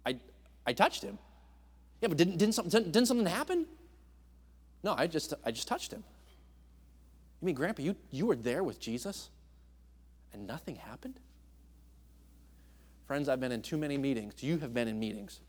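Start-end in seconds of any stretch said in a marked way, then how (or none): 0.0-1.2 sheepish grandpa. Acted. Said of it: "an old man". 2.0-3.7 puzzled grandchild. Acted. 4.8-6.0 sheepish grandpa. Acted. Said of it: "an old man". 7.4-11.2 fading to a stunned whisper; child dropping to a disbelieving whisper; shocked grandchild. Acted. Grandchild shocked that grandpa touched Jesus and nothing happened, fading to a whisper.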